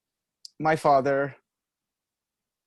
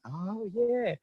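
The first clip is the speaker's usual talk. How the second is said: put-on high, dawning "oh yeah" of a kid getting it; sudden realization; 11 semitones higher, 5 dB quieter than usual. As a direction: play the penny dropping. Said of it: "I was like".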